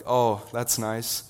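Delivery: slow, polite but cool; unimpressed reply. Retold or imitated. Classmate hearing he'll be a pastor, slow lukewarm brush-off. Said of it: "one that I usually get's like".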